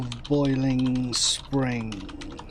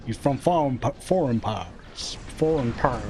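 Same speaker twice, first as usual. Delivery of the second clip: mock British accent; 3 semitones lower than usual. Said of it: "I'll do the accent".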